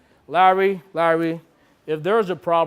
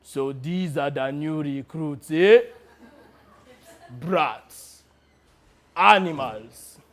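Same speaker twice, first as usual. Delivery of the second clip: sneering commander; slower than usual. Retold or imitated. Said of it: "he says".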